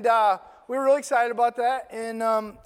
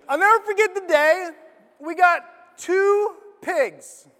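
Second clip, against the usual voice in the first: laughing; 9 semitones higher, 7 dB louder than usual. Real, not acted. Laughing at own slip.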